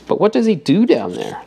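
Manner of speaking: impatient. Acted. Obispo cutting off Jeremy's reading, impatient. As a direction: cut in, wanting the point. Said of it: "Doctor Obispo asked impatiently".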